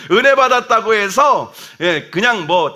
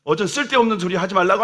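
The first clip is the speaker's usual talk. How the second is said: scolding Peter; 4 semitones higher than usual. Retold or imitated. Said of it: "막 예수님을 지금 혼내고".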